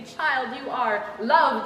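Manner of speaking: slow, gentle voice of a loving father; tender reassurance. Retold or imitated. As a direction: reassure a hurting child, slowly. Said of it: "King of creation ... say".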